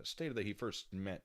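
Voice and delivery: normal talking voice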